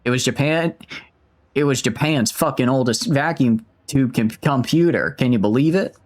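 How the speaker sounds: put-on slipping Aussie accent; amateur Australian, half lost; attempted Australian accent. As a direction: try to keep the Australian going. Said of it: "I've, I've lost the accent".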